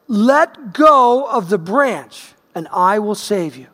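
slow, solemn voice from above; booming male voice. Retold or imitated. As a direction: speak down slowly like God. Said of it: "a booming voice yells down".

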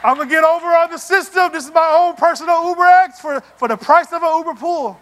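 a hint of the cheapskate passenger gloating; sneaky passenger. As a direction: gloat as if beating the system. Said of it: "real quiet like".

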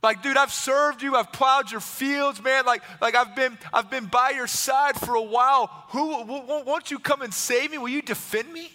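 urgent, wounded loyalty; pleading donkey. Acted. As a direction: appeal to an old friend, stumbling toward the ask. Donkey pleads with farmer for rescue.

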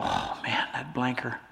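low, soft muttering under the breath; quiet, disgruntled aside; muttered grumble. Acted. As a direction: grumble it privately, voice dropped. Critics grumbling inwardly about Jesus.

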